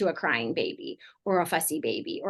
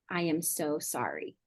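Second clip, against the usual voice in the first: softer, slow and sincere; sincere apology; 6 dB quieter than usual. Retold or imitated. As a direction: gently own it, no excuses. Parent sincerely owning the hurt.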